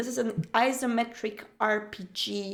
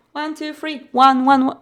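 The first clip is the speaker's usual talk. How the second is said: mic test; 11 dB louder than usual. Shown as a demonstration. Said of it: "Oh, that's pretty loud".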